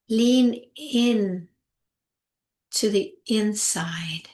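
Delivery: unhurried, spacious calming guidance; guided meditation. Acted. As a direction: ease them gently inward, phrase by phrase.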